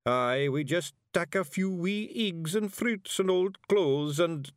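high, eager Scots pixie; blurting it out; chattering Feegle. A narrator's reading. Daft Woolly blurts to Miss Level in a high Scots voice.

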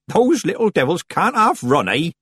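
Nanny Ogg. A narrator's reading. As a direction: cackle it like a cheeky old witch. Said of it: "said Nanny Ogg".

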